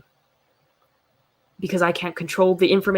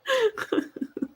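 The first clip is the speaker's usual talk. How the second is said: squeaky, very high laugh; high giggle. Real, not acted. Laughing at her own joke to the chat, high giggle.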